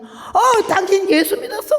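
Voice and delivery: very high-pitched surprised question; amazed nun. Retold or imitated. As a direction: gasp out astonished recognition, mimicking the nun. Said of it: "수녀가 와서는 놀래가지고". (깜짝 놀라 높게 외치는 수녀 흉내)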